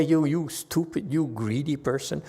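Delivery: lightly acted direct scolding; confrontational insult. Shown as a demonstration. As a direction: accuse them head-on, in jest. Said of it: "They don't confront you. Don't say".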